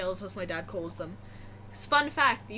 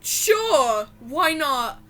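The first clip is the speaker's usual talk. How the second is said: nervous agreement; 2 semitones higher, 7 dB louder, much slower than usual. Retold or imitated. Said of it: "I'm freaking out".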